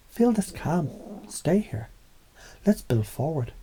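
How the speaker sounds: slow, soft reassuring lead; calming voice. Acted. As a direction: ease them down, slow and soft. Acted calming of aggressive person.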